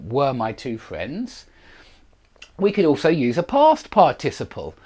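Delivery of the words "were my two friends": "were" drawn out slowly and leaned on; slow stress on were. Shown as a demonstration. Teacher slowly stressing "were" for the class.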